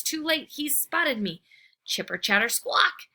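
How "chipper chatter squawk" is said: screech. Acted. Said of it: "he screeches".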